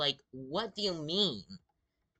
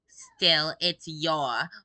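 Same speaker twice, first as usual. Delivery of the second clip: mocking loud quote; 5 semitones higher, 11 dB louder, much slower than usual. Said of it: "had the gall to say".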